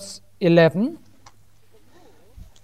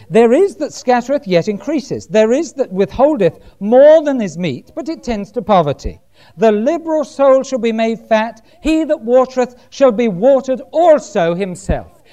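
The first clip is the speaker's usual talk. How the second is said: measured, raised preacher's reading voice; scripture reading; 3 semitones higher than usual. Acted. Preacher reading Proverbs to the church, declaimed. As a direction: read the verse out to the congregation.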